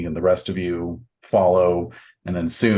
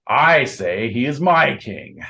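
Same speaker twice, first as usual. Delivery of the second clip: higher, emphatic proclamation; declaring knight; 4 semitones higher, 4 dB louder than usual. Acted. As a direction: insist before the whole crowd, voice raised in pitch. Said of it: "And Leonigrand says".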